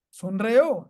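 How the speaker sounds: "सुन रहे हो" pushed up as a question. Shown as a demonstration. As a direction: ask "सुन रहे हो" to check they hear you. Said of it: "questioning accent".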